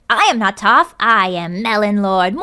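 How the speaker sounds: loud, slow villain proclamation with evil laugh; Melon Lord. Acted. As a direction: declare it grandly, then cackle. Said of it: "just pull out the Melon Lord".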